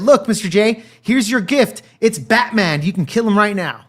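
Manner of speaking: lightly voiced cartoon villainess offering a prize; Harley Quinn. Retelling Harley offering Joker her captive, lightly acted. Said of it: "then called Mister J and said".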